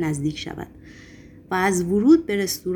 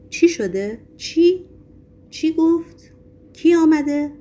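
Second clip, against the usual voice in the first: high, raised voices in short bursts; agitated questioning; 9 semitones higher, 5 dB louder, slower than usual. A narrator's reading. Restaurant crowd asking from all sides, agitated. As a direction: fire off alarmed questions, pitched high.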